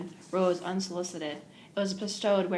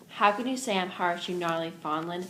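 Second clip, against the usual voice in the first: louder, indignant outcry; cried out; 3 dB louder than usual. Acted. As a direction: cry out in disbelief at her sister-in-law. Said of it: "cried the mistress".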